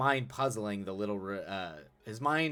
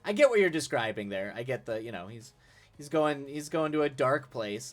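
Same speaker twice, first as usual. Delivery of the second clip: laughing; 6 semitones higher, 8 dB louder than usual. Real, not acted. Laughing riff on brooding.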